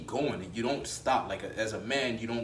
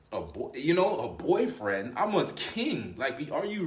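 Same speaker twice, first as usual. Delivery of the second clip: can't believe what he heard; incredulous king; 2 semitones higher, slower than usual. Retold or imitated. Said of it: "He would just look at her like".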